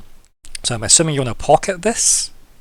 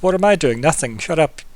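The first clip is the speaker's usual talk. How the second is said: caught out; 4 semitones higher, 4 dB louder than usual. Retold or imitated. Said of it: "The rabbit in the headlights response of".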